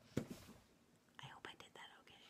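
very soft, voiceless self-doubting mutter; whispered aside. Real, not acted. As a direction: whisper it off to the side, unsure. Reader's aside after singing.

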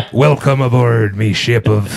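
hammy pirate captain welcoming aboard. Acted. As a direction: ham up a pirate greeting. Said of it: "Your pirate voice".

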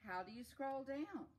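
high, loud storybook question; curious character. Acted.

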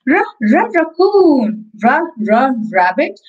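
put-on reading to a toddler. Alphabet phonics class for kids.

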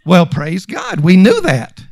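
unexcited, matter-of-fact acknowledgement; casual, even-keeled praise. Acted. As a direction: say it as something already known. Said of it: "it's just matter of fact".

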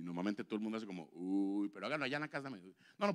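ordinary talk

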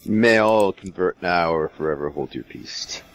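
slow, put-on Jewish accent; lightly voiced Jewish accent, unhurried. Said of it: "it's my Jewish accent".

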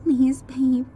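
whispered plea. Acted. Sadie whispering to Leo through the door. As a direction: breathe it, barely voiced. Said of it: "Sadie said".

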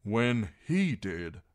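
"When he did" echoed slowly; slow, stressed "he" in "When he did"; pointed repeat. A narrator's reading. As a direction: weigh out "When he did" deliberately. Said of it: "Davos repeated".

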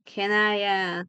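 slightly unsure start to a question; faltering, searching for the words; a bit hesitant. Shown as a demonstration. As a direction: trail into an "uh". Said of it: "como que un poco dudando".

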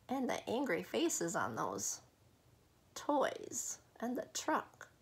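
whisper. Acted. Whispered aside about scary toys.

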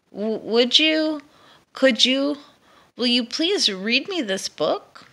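high, loud, tumbling plea; eager stammer. Acted. Dragon begging the mouse, high, loud and stammering. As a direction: stumble over the words in excitement.

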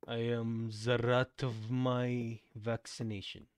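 slow, solemn parody chant; mock incantation. Streamer invoking her plague powers, slow mock incantation. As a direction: intone it like an epic summoning spell.

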